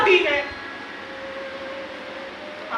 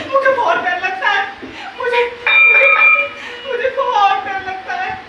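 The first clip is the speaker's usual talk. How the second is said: frightened pleading; 4 semitones higher than usual. Acted. Afraid of being left alone.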